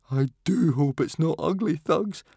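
high, fearful whimper. A narrator's reading. Fishlegs to fellow captives fearing Ugly Thugs, high whimper. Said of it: "whimpered Fishlegs".

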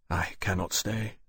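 said gently to a grieving man; quiet. Acted. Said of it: "he said quietly to Hollin".

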